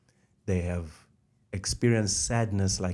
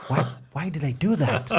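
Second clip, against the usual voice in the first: laughing self-reproach; 5 semitones higher, faster than usual. Retold or imitated. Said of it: "she caught herself and she says".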